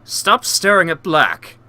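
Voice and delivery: slow, stiff character voice. Retold or imitated. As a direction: read it like a gruff guard. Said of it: "really not an appropriate voice for him".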